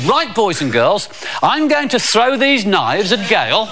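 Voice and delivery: slow, drawn-out stage announcing; Uncle Marvo. Acted. Magician announcing knife throwing to children, slow showman patter. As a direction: build the trick up slowly for the children. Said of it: "He said".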